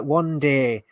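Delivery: a light Irish lilt on "One day"; lightly Irish "One day"; mock Irish accent. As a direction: imitate a faint Irish accent. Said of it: "It kind of sounds a little bit Irish at the beginning".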